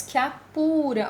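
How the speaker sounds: "que a" blended, weak E into stronger A; sinalefa. Shown as a demonstration. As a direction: run "que a" together before "pura". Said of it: "aqui nós temos as duas vogais". ("que a" junto, E fraco e A forte)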